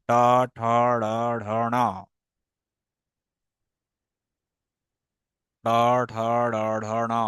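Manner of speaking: "ট, ঠ, ড, ঢ, ন" recited for the class to repeat, with the tongue curled back; retroflex recital. Shown as a demonstration. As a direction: model "ট, ঠ, ড, ঢ, ন" for the class, tongue tip on the palate. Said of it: "এভাবে উচ্চারণ করুন আমার সাথে".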